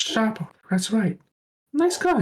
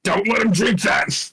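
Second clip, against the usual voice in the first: alarmed shout; 5 semitones higher, slower than usual. Real, not acted. Party shouts as Alex drinks.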